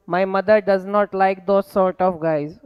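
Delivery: very slow, word-by-word dictation. Shown as a demonstration. Teacher dictating an error sentence to the class, slowly.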